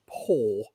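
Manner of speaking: 'paw' as one long flat vowel; 'paw' drawn out with no second vowel; one-vowel 'poor'. Shown as a demonstration. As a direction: say 'paw' in a single syllable, like 'paw'. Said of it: "not just one".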